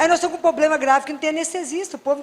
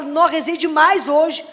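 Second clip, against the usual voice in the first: mock boast; 3 dB louder, much slower than usual. Mocking people who barely pray.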